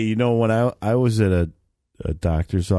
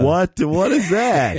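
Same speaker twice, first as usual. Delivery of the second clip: taken aback; 8 semitones higher, slower than usual. Real, not acted. Demands meaning, taken aback.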